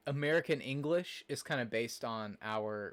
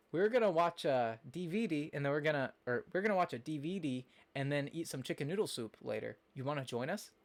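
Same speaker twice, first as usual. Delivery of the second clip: lightly imitated Minnesota grandmother; grandma's Minnesota accent; 2 semitones higher than usual. Streamer imitating grandmother's invitation, Minnesota accent. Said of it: "that's kinda how she talks".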